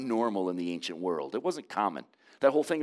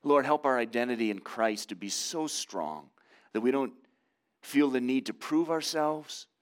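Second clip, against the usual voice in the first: closing prayer. Real, not acted. Pastor praying over his congregation, hushed and earnest.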